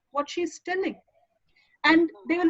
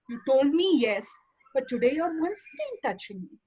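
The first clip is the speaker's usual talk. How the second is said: firm but gentle. Shown as a demonstration. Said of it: "You are not harsh".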